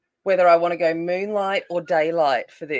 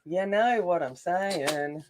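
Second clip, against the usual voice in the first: slow, stretched "You know what I'm saying"; drawn out; 4 dB quieter, much slower than usual. Real, not acted. Host repeating herself to viewers, "You know what I'm saying" drawn out slowly.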